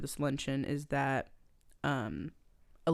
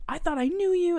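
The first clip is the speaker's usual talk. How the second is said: mock hurt; 12 semitones higher, 4 dB louder than usual. Channing's betrayed line.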